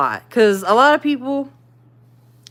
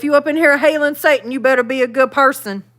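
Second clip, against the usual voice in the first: quick, raised teasing warning; mock warning; 5 semitones higher, 3 dB louder, faster than usual. Warning viewers who hail Satan, mock stern. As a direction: wag a finger at them, joking.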